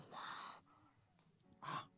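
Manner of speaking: usual speaking voice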